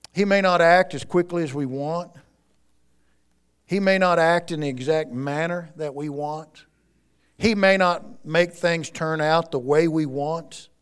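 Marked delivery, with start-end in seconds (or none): none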